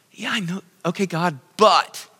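high-pitched, lightly voiced Moses objecting; a hint of a nervous Moses pleading; protesting Moses. Preacher voicing Moses protesting to God, high and nervous. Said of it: "And he protested".

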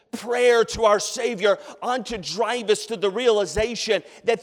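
loud, high preaching at full force; fiery sermon voice. Acted. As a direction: preach it out to the whole church.

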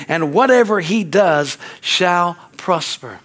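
measured psalm recitation, slowing toward the end; scripture recitation. Acted. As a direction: recite scripture to the congregation, drawing out the final phrases.

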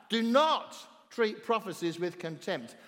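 slow, with weight on DO NOT; emphatic reading. Acted. Preacher quoting Paul on prophecies, emphatic. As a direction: lean hard on "Do not", then spell out the rest slowly. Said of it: "he's very emphatic".

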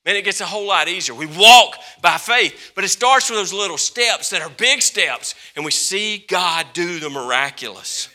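loud, high preaching over music; preaching climax. Acted. Preacher lifting the congregation with music, loud and high. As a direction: belt it out to the crowd.

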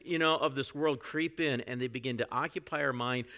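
usual speaking voice

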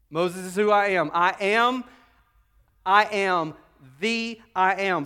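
loud, forceful voicing of God's words; emphatic divine declaration. Repeats God's declaration forcefully to congregation.

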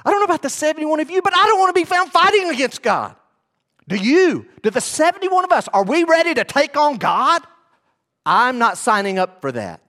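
full-force preaching, rising in pitch; fiery preaching. Acted. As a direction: preach it hard to the congregation.

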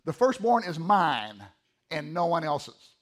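"mine" drawn out slowly and firmly; emphatic MINE. Shown as a demonstration. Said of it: "that's how emphatic that word is".

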